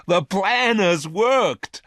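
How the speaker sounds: put-on overjoyed girl's high excited cry; cried excitedly. A narrator's reading. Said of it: "she cried excitedly".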